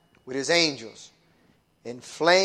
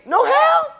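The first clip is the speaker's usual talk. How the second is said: scornful question; 10 dB louder than usual. Acted. Mocking the doubters.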